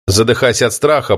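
ordinary delivery, nothing marked

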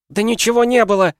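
громкий высокий крик; оборвать криком; рявкнув. A narrator's reading. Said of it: "рявкнула Наташа". (громко рявкнуть)

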